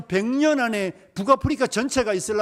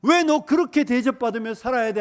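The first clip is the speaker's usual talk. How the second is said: louder, higher provocation; inciting devil; 4 semitones higher, 5 dB louder than usual. Retold or imitated. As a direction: whip up their anger. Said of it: "하면서 마귀는 계속해서 우리의 자아를 부추기죠".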